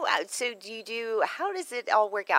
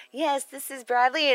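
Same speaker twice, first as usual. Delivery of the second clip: slow, louder cowboy drawl imitating a voicemail; John Wayne drawl; 7 semitones higher, 6 dB louder than usual. Host imitating Bradley's voicemail greeting, slow cowboy drawl. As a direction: drawl it like a Western hero. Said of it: "the John Wayne of crawfish".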